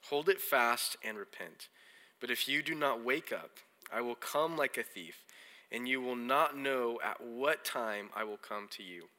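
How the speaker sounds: measured, solemn Bible reading; slow scripture reading. Real, not acted. Preacher reading Revelation to the congregation so they grasp it, slowly. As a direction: read it slowly, phrase by phrase, so it sinks in. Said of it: "I'll read it kinda slow".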